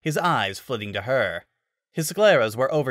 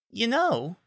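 haughty; 11 semitones higher than usual. Acted. Miyu begins haughtily.

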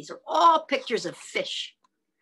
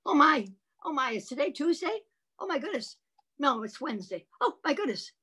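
high flustered exclamations; high mock confusion; confused; 5 semitones higher, faster than usual. Shown as a demonstration. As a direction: act baffled and flustered.

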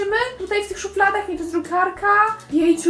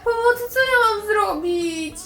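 slow, drawn-out helpless wail; whiny plea for help; 6 semitones higher, slower than usual. Pretend. Muffin losing her voice asks for help, whiny plea. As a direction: wail slowly for help, playfully distressed.

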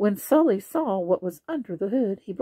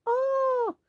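startled oh. A narrator's reading. Sully wakes to a ghost.

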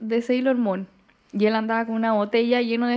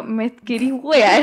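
slow laughing quote; drawn-out giggly question; teasing laughing ask; 6 dB louder, much slower than usual. Retold or imitated. Retold flirty question, laughing.

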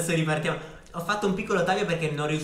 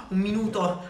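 gasp, then higher exclamation; surprised exclamation; 6 semitones higher, 3 dB louder than usual. Real, not acted. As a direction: gasp and blurt it out. Learns one minute to birthday. (esclamazione sorpresa)

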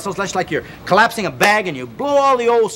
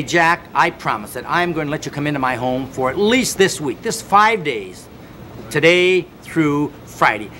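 slow dictated promise. Pretend.

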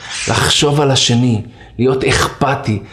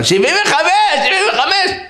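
high-pitched crazed chant; madhouse shouting. Retold or imitated. Madmen chanting to a passer-by over the wall, high mock shouting. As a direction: yell it out like a rowdy inmate. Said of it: "הוא לא הבין מה הם צועקים".

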